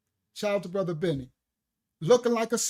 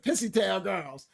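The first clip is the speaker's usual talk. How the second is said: slow grandma saying; 3 semitones lower than usual. Retold or imitated. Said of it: "My grandma said".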